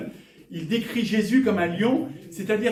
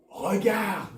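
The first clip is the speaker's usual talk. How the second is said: calling out. Retold or imitated. Elder telling weeping John to look. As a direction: shout it like the elder urging him. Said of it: "Il dit".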